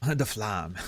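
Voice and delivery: "flamme" said as French "flahm"; French pronunciation. Shown as a demonstration. Streamer amused by French words, "flamme" as "flahm". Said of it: "like, the French words".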